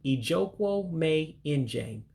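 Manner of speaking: Ijokwo me injame said slowly and evenly; teacher's corrected take; corrected Igbo pronunciation. Shown as a demonstration. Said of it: "Let me say it right".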